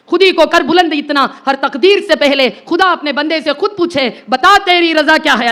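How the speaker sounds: slow Urdu couplet recital; slow, measured Iqbal couplet; poem recital. Acted. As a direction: recite the verse slowly and reverently.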